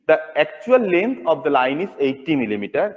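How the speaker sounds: slow dictation. Acted.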